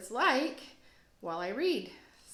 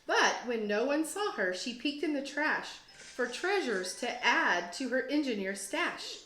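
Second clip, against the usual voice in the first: put-on lively rhyming read-aloud for kids; story narration. A narrator's reading. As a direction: read it like a teacher to second graders, with bounce. Teacher reads picture book aloud.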